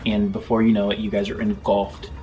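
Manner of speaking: steady, measured scene-setting narration; lightly dramatic GM storytelling; game master narration. Acted. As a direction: paint the journey for the players.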